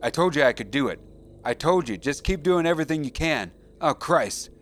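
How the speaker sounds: near tears. Acted. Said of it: "Dalton was almost crying now".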